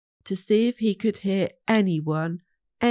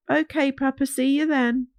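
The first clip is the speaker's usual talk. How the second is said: little Wee; 6 semitones higher than usual. Acted.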